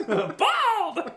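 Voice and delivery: very loud, high shout; exaggerated comic holler; mock yell. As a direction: belt it out high for comic effect. Acted yell, quoting someone afterward.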